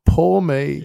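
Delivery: hamming up his own sulk; mock self-pity. Mocking himself sulking over his wife in the kitchen, whiny. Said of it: "feeling sorry for myself".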